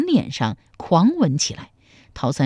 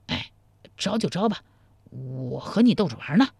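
teasing man, giving in; 4 dB quieter than usual. Acted. Man character gives in.

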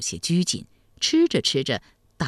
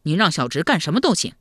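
put-on guileless young nephew; 3 semitones higher, 4 dB louder, faster than usual. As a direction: answer like a simple, hungry lad.

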